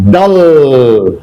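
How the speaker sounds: "dull" with the short a-sound "uh" for U; teacher demonstrating "dull" with U as a short a. Shown as a demonstration. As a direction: say "dull" with U like the a in "but".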